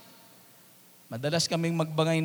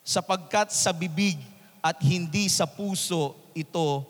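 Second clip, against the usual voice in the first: scripture reading. Acted. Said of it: "At ang sabi doon".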